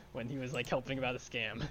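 talking between sips of iced tea; words around a sip of a drink; while sipping a drink. Real, not acted. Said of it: "I'm taking a drink of iced tea".

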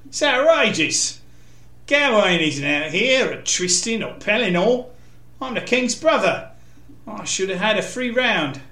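lightly voiced arrogant knight, pitch jumping in outrage; indignant complaint. A narrator's reading. Kay complains of his unfair draw.

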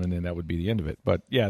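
usual speaking voice

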